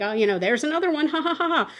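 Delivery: quick breezy chatter with a tossed-off laugh; mock casual doctor. Doctor chatting breezily to her techs, mock casual. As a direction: toss it off like it's nothing, laughing. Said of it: "the way she's talking is just so incredibly casual".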